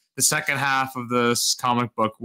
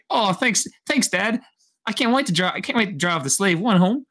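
put-on eager kid's voice in a light young Boba accent, pitched higher; excited kid thanking his dad, a hint of young Boba's accent; a son thrilled to drive home, in a lightly put-on young Boba accent; 6 semitones higher than usual. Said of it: "nice job on the accent".

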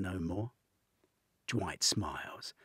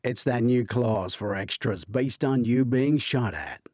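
innocently; 5 semitones higher, 11 dB louder than usual. A narrator's reading. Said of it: "Dwight informs them innocently".

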